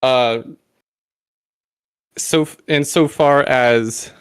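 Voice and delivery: catching breath between words; breathless, still winded. Real, not acted. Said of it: "sorry, I'm still catching my breath".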